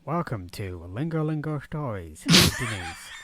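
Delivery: slow, drawn-out programme intro; mock show announcer.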